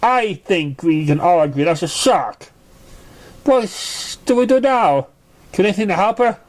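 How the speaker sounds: lightly voiced worried filly; worried friend. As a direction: wonder what to do.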